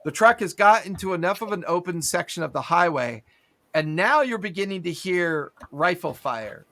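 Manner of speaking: normal talking voice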